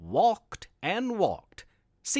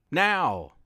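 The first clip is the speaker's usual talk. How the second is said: insistent monster. A narrator's reading. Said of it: "the Dark insisted".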